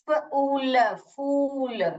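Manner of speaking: फूल broken into sounds with a long oo; फूल said slowly as "foool". Shown as a demonstration. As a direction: sound out फूल, stretching the vowel. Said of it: "फुल नहीं बोलते हैं".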